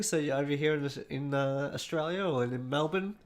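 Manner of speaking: talking through a mouthful of popcorn; munching popcorn. Real, not acted. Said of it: "Sorry, I'm eating popcorn".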